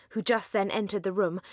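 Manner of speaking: plain reading voice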